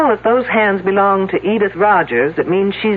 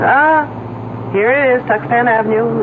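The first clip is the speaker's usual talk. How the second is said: pleased discovery; 6 semitones higher than usual. Acted. Finds the street while driving.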